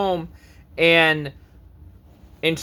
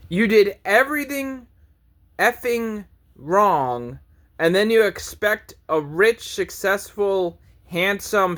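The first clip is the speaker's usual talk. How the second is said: exasperated higher rant, words stretched out; scolding rant; 4 semitones higher than usual. Real, not acted. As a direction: draw it out like a disgusted lecture. Ranting at women.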